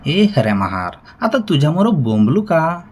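loud, rising mock-wailing plea; narrator's acted cry-baby complaint; tearful whine. A narrator's reading. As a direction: wail it in protest, without real sobs. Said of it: "रडक्या सुरात म्हणाला".

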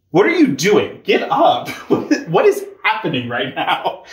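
lightly voiced angel, mildly exasperated and incredulous; a hint of an angel scolding a man lying on the ground. Angel tells Joshua to get up, mildly exasperated. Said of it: "I just could not not read that as".

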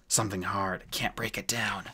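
strained dwarf in pain; effortful, hurting mutter; pained grunt. Acted. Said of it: "grunted the dwarf".

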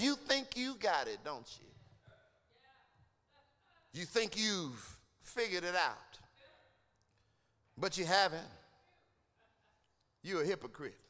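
soft, low reproach from God; quiet rebuke. Acted. Preacher voicing God softly rebuking the hypocrite, quiet. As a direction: hush it down and accuse gently.

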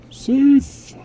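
high, loud shouted command; barked order. Acted. Commanding the unit south, shouted. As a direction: bark it like a drill sergeant. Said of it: "instructions to head south".

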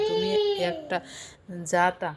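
high, whiny complaint; a put-on whine; mock whining. Indu scolded in an argument.

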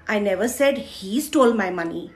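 he is stressed, as if blaming someone else. Shown as a demonstration. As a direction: hit he as if it was someone else. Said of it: "मैंने ये नहीं बोला इसने चुराए हैं". (he पर ज़ोर, कोई और चोर है)

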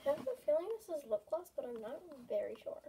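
chewing gum while talking. Real, not acted. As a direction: talk around the gum. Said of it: "I am chewing gum right now".

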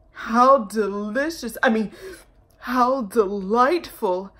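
slow, sly self-correction; sly cat. Acted. Cat catching its slip before the mice, sly. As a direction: savour it, then cover up.

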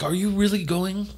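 high-pitched imitation of a crying girlfriend; mock crying. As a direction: plead in a high, put-on tearful voice. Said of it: "she's, like, crying".

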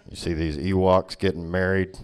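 a hint of a cranky racist uncle; grumpy Vader. Darth Vader complaining about Alderaan, low and grumbling.

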